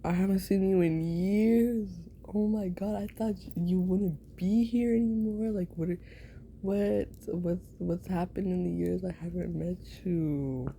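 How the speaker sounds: bubbly catch-up squeal; excited greeting. Pretend. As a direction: gush at an old friend you haven't seen in years. Excited reunion greeting to old friend.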